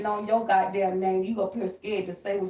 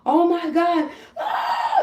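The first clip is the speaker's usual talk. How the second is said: a raised, louder gasp of alarm; mock white bystander scream; 9 semitones higher, 5 dB louder, much slower than usual. White onlookers at an accident, a mild mock panicked cry. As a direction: lightly play a startled onlooker. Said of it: "they're screaming".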